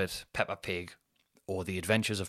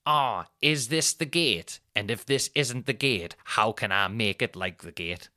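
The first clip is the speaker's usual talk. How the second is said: mock lad voice; slower than usual. Wife mimicking the lad, slow mocking voice. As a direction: drag it out like a clueless lad. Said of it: "the voice I do for Sophie".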